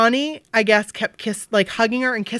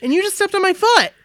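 mock pissed-off quote; 9 semitones higher, 4 dB louder than usual. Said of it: "He could have been pissed off".

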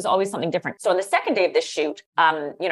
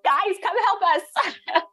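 drawn-out high call for help, slow; 14 semitones higher, much slower than usual. Retold or imitated. Panicked editor calling the details guys over for help, high and slow. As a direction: stretch it out like calling across the office.

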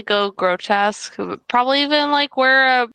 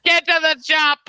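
bad Schwarzenegger impression; 5 semitones higher than usual. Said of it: "that sounded like Boston".

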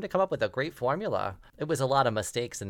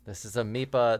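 mad scientist. Acted. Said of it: "you will hear the voice of a mad scientist".

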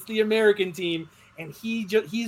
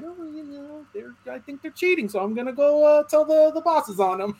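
airy, higher, casual mock team boss; mock Horner impression; 9 semitones higher than usual. Friend mocking Horner as a breezy snitch. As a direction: toss it off like a smug boss tattling. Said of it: "He's just like".

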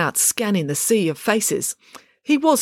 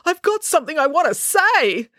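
high, worked-up insistence; demanding; 11 semitones higher, 3 dB louder than usual. A narrator's reading. Dad seizes the microphone from the DJ, demanding. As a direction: push to be heard, pitched right up. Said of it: "demanded Dad".

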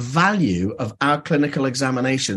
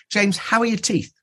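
raised, mock-cheery dentist question; mocking the awful question; 7 semitones higher than usual. Dentist mocking his old habit, mock-cheery question. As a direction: send it up as a cringey routine question. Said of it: "freaking awful question".

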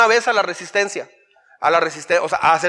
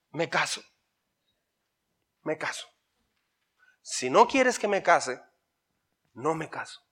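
much softer, dropping to a hush; meek submission; 2 semitones lower, 6 dB quieter than usual. Retold or imitated. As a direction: murmur the vow meekly. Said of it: "dice cosas así como las siguientes".

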